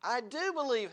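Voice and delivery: imitated father's earnest outcry; crying out. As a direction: cry it out as a retold desperate plea. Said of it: "the Father cries out".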